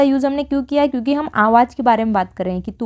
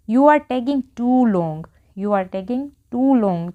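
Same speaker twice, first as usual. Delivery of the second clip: very slow, word by word; slow model sentence; much slower than usual. Shown as a demonstration. Teacher modelling an English sentence for Hindi learners, very slow. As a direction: say it slowly so learners can follow. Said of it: "तो क्या बोलेंगे".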